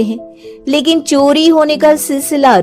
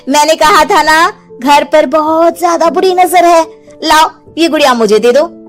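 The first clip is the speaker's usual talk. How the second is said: lightly put-on, higher insistent voice; sly doll seller; 4 semitones higher than usual. Doll seller warning woman of evil eye, slyly insistent. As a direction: press her to hand it over.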